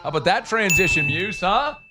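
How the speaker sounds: lightly gravelly coach impression; a hint of a gruff Cajun coach. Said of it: "Gravelly voice, kinda like Coach O".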